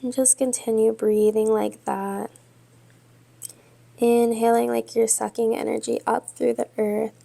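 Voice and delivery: measured yoga-teacher cueing with long pauses; guided yoga meditation. Real, not acted. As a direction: guide them steadily through breath and pose, leaving space between phrases. Leads yoga and breathing meditation.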